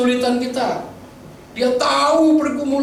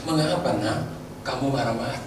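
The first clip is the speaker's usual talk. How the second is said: gentle fatherly question; 9 semitones lower, 7 dB quieter than usual. Acted. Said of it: "Tuhan itu tidak marah".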